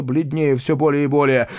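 plain reading voice

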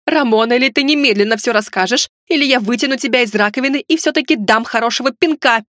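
mildly heated, exasperated warning; wailing threat. Acted. Heroine threatening Ramon with a kick, exasperated. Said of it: "взвыла, тряхнув в воздухе кулаком".

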